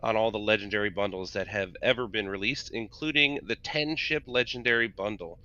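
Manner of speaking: promo announcer read. Acted. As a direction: sell it like a game ad spot. Reads the sale announcement.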